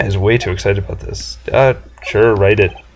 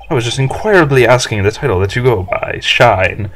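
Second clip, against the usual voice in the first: pompous businessman. Acted. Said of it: "this guy's arrogance meter is off the scale".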